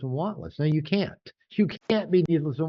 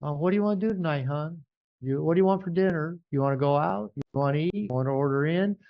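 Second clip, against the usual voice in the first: eager people-pleaser; 3 semitones higher than usual. Retold or imitated. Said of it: "And we go".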